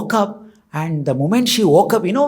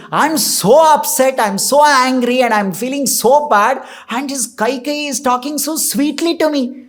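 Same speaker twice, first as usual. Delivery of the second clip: raised pitch, mildly acted anger; angry, upset; 4 semitones higher than usual. Manthara resenting Kaikeyi's sweet talk, acted anger. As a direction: play a worked-up, indignant complaint. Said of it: "Manthara is becoming even more angry".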